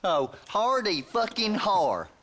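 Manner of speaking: slow, mocking fake laugh; sarcastic. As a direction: drag out the sarcasm slowly. Deputy mocks the joke sarcastically.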